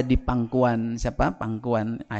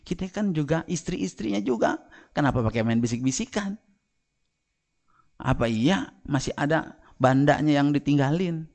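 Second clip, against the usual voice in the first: jealous questioning. Acted. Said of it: "Aisyah nanya-nanya".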